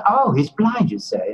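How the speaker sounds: imitated Englishman with an English accent, taken aback. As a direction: react in a put-on English accent. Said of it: "pardon my English accent".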